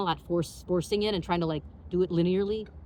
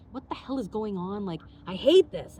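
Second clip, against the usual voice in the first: retold frustration; 3 semitones higher, 4 dB louder than usual. Frustrated during failed meditation.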